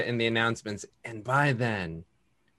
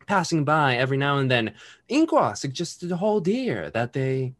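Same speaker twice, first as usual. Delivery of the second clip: story narration. Acted. GM scene narration.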